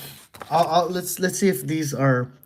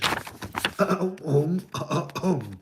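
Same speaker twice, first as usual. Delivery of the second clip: throat clearing; 5 dB quieter than usual. Pretend. Clearing throat before reading aloud.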